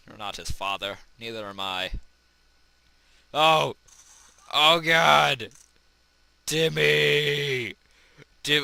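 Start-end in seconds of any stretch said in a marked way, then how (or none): 3.3-8.6 high, loud panicked cries; mock panic. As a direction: yell out in mock alarm. Character hurt in Happy Wheels.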